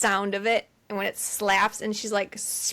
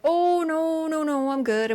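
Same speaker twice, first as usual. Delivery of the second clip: higher-pitched mock reluctance; retold "no thanks", pitched up; polite panicked refusal; 7 semitones higher than usual. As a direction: wave it off in a high voice. Retold nervous refusal of the baby.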